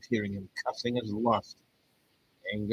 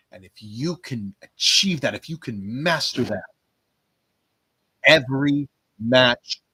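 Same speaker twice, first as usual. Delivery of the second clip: motivational speech. Acted. Delivers a motivational promo speech.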